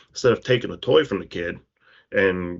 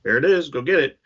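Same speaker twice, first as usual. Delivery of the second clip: higher, light mock-casual dad; dad's challenge; 7 semitones higher than usual. Father daring his son to fix the toy, lightly higher. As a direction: toss it back to the kid breezily. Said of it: "And he goes".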